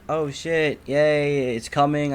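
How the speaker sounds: a quick happy yelp as the ride is confirmed; excited cheer. Retold or imitated. Retelling friends how he cheered at the order: excited.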